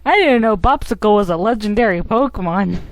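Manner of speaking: loud, playful game dialogue; half-yell it as the creature; mock yelling. Voicing Bopsicle who yells constantly, mock yell. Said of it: "Starts yelling constantly".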